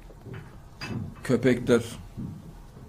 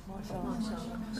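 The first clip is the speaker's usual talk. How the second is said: very slow, breathy, high and hushed Maşallah; hushed amazement; awed whisper; 10 semitones higher, 15 dB quieter, much slower than usual. Real, not acted. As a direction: breathe it out in wonder. Awed at the miracle.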